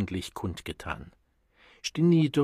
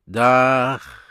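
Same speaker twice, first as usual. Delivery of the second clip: louder, higher call of the lift attendant; 4 semitones higher, 10 dB louder than usual. Acted. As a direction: throw the word out as the doors open. Attendant calls roof again.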